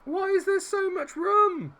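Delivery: high, loud, exasperated cry; real panicked outburst; alarmed yell. Real, not acted. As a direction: yell in panic at your defenders. Alarm at defending in game.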